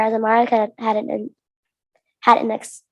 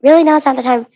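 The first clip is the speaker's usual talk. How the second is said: scolding; 5 dB louder than usual. Acted. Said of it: "Amara scolded".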